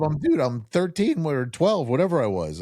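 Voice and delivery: retelling a boyhood protest to his dad, high and slow in mock outrage; indignant disbelief. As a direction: replay your younger self balking at the chore. Teen son protesting dad's chore.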